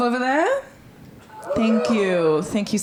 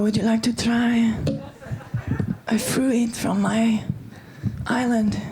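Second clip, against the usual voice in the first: mock mystic parody; 3 semitones higher, slower than usual. She mimics his ritual.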